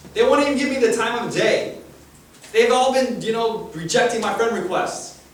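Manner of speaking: loud, high, pleading outcast; loud Zacchaeus. Acted. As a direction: belt it out as the rejected tax collector. Zacchaeus pouring out his heart.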